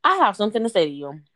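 talking through a mouthful; words round a bite of food; chewing while talking. Real, not acted. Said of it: "Sorry, I'm chewing again".

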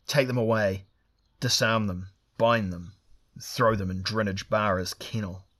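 loud, curt commands; barked orders. Acted. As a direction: order the guards sharply. Leader barks orders at guards.

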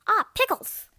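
high, loud outburst; excited exclamation. Retold or imitated. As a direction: blurt it out with a yelp. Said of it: "I'm like".

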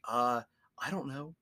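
whispered, shrugging I don't know; mock careless whisper. God shrugging off blame to humans, careless whisper. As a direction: toss it off in a whisper.

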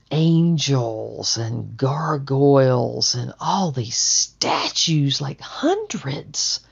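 awed hush. Real, not acted. Awed description of yard.

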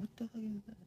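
hushed whisper; whispered what the hell. Real, not acted. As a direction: breathe it out unvoiced, shocked. Reacting quietly to video.

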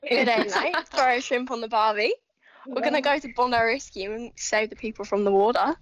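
put-on Australian accent, lightly done. Shown as a demonstration. Asked by the host to do her Australian accent, Australian accent. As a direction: try out an Aussie accent on request. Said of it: "do your Australian accent".

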